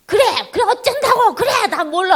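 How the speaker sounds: high, loud acted outburst; parent losing it. Parent who cannot hold out a third time, loud high-pitched exasperated snap. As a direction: blow up as the patience runs out. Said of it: "세 번 자는 순간".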